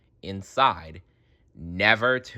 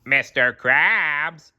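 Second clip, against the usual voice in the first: delighted cry; 6 semitones higher, 5 dB louder, much slower than usual. A narrator's reading. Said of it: "cried Squidward with delight".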